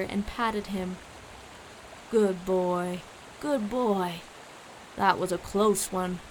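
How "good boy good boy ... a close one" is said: calm owner petting a dog; gently approving, settled voice; soothing praise. A narrator's reading. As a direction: reassure a good dog. Owner pats and praises his dog.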